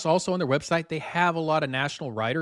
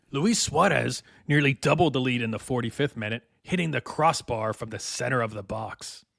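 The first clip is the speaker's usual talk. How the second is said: thespian voice. Acted. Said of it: "my thespian voice".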